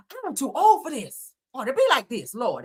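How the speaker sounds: mock pastor voice. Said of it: "That's what Donnie said".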